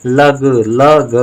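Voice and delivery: लग, लग drawn out slowly and clearly; teacher spelling out लग slowly for pupils; syllable drill. Shown as a demonstration. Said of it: "ला और ग".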